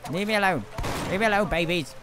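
yelling. Real, not acted. Swarmed by babies, yelling.

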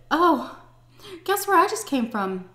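high, loud sing-song taunt. Retold or imitated. Calling her husband to taunt him, loud and high. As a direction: needle him with it.

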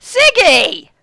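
loud high glad shout; calling out. Acted. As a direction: call across the tavern. Lisa calls out on seeing him.

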